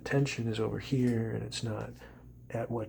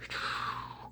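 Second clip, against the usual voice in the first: demo exhale; 6 dB quieter than usual. Shown as a demonstration. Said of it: "you exhale through the wrist".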